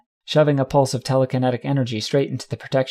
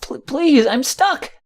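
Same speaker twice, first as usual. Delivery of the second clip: high-pitched, squeaky little colt pleading; stammered, panicky child's squeal; Rumble; 13 semitones higher, 3 dB louder, slower than usual. A narrator's reading. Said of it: "Rumble's voice squeaked from a distance".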